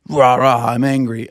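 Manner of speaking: hammed-up grumpy roar; mock angry. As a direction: imitate a fake angry outburst. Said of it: "It comes off as".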